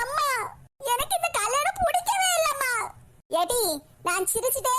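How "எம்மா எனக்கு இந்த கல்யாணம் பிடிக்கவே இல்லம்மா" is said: high, tearful pleading to her mother; a bride begging her mother through tears. Acted. பெண் அழுகையுடன் அம்மாவிடம் கெஞ்சுகிறாள், உயர்ந்த குரலில். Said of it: "எதுக்கு இப்படி கண்ணீர் வடிச்சிட்டு இருக்க".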